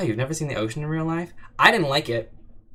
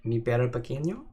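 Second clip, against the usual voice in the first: mock Spanish. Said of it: "Oh, the Spanish one".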